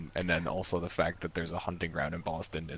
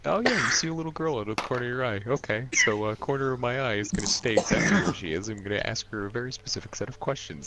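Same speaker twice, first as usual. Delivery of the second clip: higher and fast, rattling off the scene; breathless, excited retelling of the GM; mock game master; 6 semitones higher, faster than usual. Player mimicking the game master, higher and fast.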